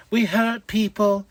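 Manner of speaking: slow, heavy mock threat; hammed-up wrestler catchphrase; slow menacing catchphrase. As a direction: lean into the catchphrase. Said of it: "the Hurt Syndicate".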